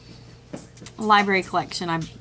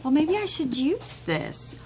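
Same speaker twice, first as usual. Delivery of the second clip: doubtful whisper; 7 semitones higher than usual. Retold or imitated. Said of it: "I'm going".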